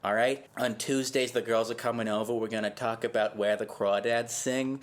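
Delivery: put-on Massachusetts accent. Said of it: "You sound like you're from Massachusetts".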